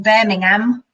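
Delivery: botched attempt at a Birmingham accent; light, muddled put-on accent; unidentifiable accent. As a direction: have a poor go at an accent nobody can place. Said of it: "what accent that was".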